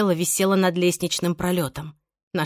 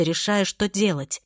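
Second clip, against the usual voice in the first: ordinary delivery, nothing marked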